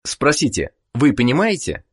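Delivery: normal talking voice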